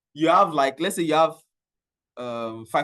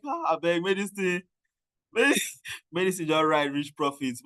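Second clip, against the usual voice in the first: laughing plea; 2 semitones higher, 3 dB quieter than usual. Retold or imitated.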